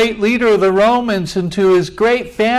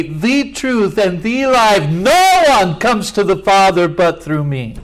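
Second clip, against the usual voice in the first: fervent preaching; 3 dB louder than usual. Acted. Preacher proclaiming Jesus' words to the congregation, fervent and loud. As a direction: preach it with full revival fervor.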